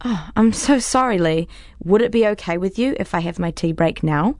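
sugary, overpolite sarcasm; fake-sweet mock apology; sarcastic. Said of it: "I don't mean to say it so sarcastically".

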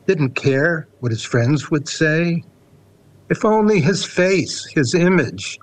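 measured, unhurried poem recital; poetry reading. Acted. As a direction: read it like a poet at a reading. Reads his poem Fame.

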